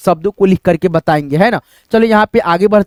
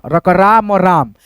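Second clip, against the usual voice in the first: slow spelling out; 3 semitones lower, slower than usual. Shown as a demonstration. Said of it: "जैसे यहाँ पे देखो राम है ना".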